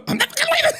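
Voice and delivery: very high mock movie line; DiCaprio impression. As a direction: ham it up like DiCaprio. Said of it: "I'm like Leonardo DiCaprio".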